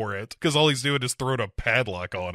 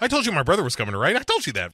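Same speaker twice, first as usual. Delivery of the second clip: mock Disquay; 6 semitones higher, much faster than usual. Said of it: "Disquay was like".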